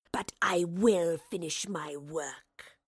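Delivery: very slow, whispery creature voice; snarling wraith. A narrator's reading. Wraith threatens the playwright who blocks it, snarling. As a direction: drag it out in a sinister rasping whisper. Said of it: "the wraith snarled".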